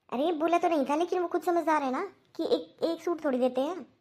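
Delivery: lively self-justifying comeback; defensive protest. Acted. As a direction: protest mildly as if wrongly blamed. Mother defends herself when questioned.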